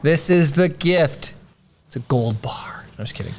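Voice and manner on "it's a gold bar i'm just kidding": unvoiced joking whisper. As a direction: whisper it like a secret. Joking whisper over gift.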